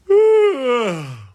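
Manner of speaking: high, loud groaning sigh. Real, not acted. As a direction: let out a long high sigh. Loud sigh between comments.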